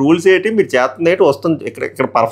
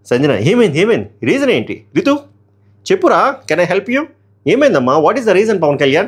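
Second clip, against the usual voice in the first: mock soothing host; 6 semitones higher than usual. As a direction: coo at her like a worried big brother. Host retold comforting contestant.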